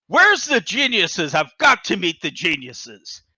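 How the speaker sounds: lightly imitated big entrance, drawn out; a hint of a grand, emphatic bigwig; Trump. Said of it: "you can see him walking up".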